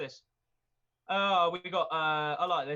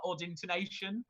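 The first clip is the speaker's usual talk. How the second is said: usual speaking voice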